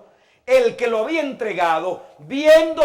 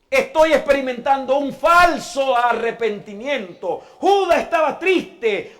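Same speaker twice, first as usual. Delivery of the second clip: higher and louder, hammering each Judas line; preaching shout; 6 semitones higher, 7 dB louder than usual. Real, not acted. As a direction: build the list to a full preaching cry. Preacher builds to shouting climax. (predicación a gritos, cada vez más fuerte)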